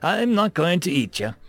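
mocking villain. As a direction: tease the helpless victim. Demon mocks Ethan.

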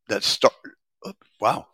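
talking through hiccups; hiccuping mid-sentence. Real, not acted. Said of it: "got the hiccups".

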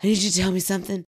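hurried, mildly mimicked breathless kid; lightly acted breathless urgency; out of breath. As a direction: imitate a winded boy rushing it out. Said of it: "he's just out of breath".

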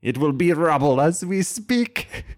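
slow, loud, high alien voice; alien villain voice. Acted. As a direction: declare it like a gloating alien villain. GM continues the villain's broadcast.

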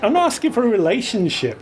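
put-on drunk, slurring her words. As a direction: slur it like she's had too many. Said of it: "slurring badly".

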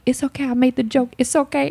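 high, lightly placating voice; mock soothing of shocked friends; retold reassurance.

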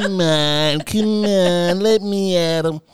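hammed-up, held back and itching to fight; imitating Bunny begging to get at him; mock eager brawler.

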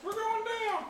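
excited shout. Acted. Player shouts high.

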